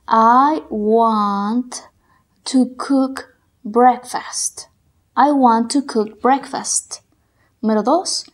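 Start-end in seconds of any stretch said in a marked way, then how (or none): 0.1-4.7 slow, whispered dictation. Shown as a demonstration. Teacher dictating a sentence slowly for students. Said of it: "Trata de escribirlos de acuerdo como los escuches". 5.2-7.0 slow dictation. Shown as a demonstration. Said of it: "Trata de escribirlos de acuerdo como los escuches".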